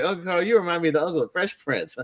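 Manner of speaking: high-pitched, lightly mimicked sitcom kid; imitating Richie. Retelling a sitcom blooper to co-hosts, high-pitched mimicry. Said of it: "I think Richie was like".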